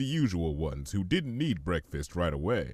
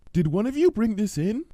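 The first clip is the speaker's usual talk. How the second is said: much higher, a bit louder puzzled pony voice; Fluttershy; 12 semitones higher, 5 dB louder than usual. Acted. Fluttershy asking her animals, high and puzzled. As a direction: ask the room gently but clearly.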